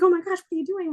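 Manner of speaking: high, panicked little yelp, imitating Littlefinger; mock frantic. Littlefinger caught off guard by guards, mock frantic. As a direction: play a man suddenly cornered, lightly panicked. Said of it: "like, frantic or whatever".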